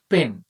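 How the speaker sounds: পেন as one short unbroken syllable. Shown as a demonstration. Teacher showing a monosyllable, said in one go. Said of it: "একটানে কিন্তু আমরা বলতেছি".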